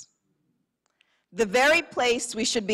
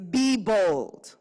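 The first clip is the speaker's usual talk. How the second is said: rocket-launch shout; 4 dB louder than usual. Shown as a demonstration. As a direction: punch it up like a launch. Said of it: "say it like you're trying to shoot me like a rocket into the sky".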